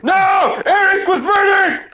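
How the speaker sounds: high-pitched mock death-cry; hammed-up, high grieving shout; mock anguished yelling. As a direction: yell it out like a melodramatic enemy. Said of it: "every single person yelling out".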